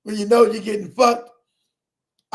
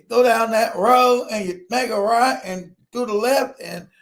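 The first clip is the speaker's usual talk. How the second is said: put-on country accent; slower than usual. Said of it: "crazy country motherfucker".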